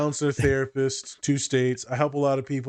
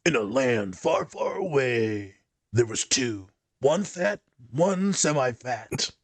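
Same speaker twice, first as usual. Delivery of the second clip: movie trailer voice. Pretend. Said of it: "you're lucky I don't do the".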